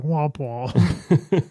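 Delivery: comic "womp womp" of failure; sad trombone imitation. Joking about losing all the powers, mock sad trombone. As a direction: mimic a deflating game-show trombone. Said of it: "I was just like".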